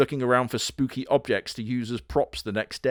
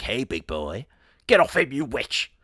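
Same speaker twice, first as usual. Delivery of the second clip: 1 Black Bebe's voice. Pretend. Black Bebe voiced in the story.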